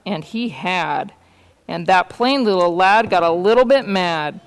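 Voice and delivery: measured picture-book reading; story narration. A narrator's reading. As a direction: read the tale aloud to children. Reads a story aloud.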